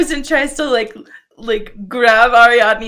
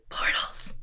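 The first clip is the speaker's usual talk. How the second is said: soft unvoiced whisper; 14 dB quieter than usual. Real, not acted. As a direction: whisper it under your breath. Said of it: "The speaker whispers".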